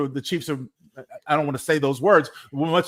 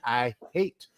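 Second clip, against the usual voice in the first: muttered first try; 6 dB quieter, much slower than usual. Shown as a demonstration. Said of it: "Did I say that right?".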